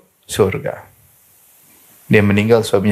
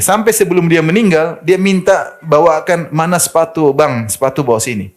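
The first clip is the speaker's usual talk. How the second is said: husband retelling; 6 semitones higher than usual. Retold or imitated. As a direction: lift it as the moved widower. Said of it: "Dia semir sepatu suaminya". (suami menirukan istrinya)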